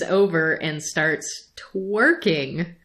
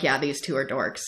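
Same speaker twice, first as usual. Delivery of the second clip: softer, dropped low, like an amused aside; hushed mock aside; 6 semitones lower, 7 dB quieter than usual. Jesus and the sex monster mocking the couple, hushed aside. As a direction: toss it off under your breath. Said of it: "That one got a little chuckle out of me".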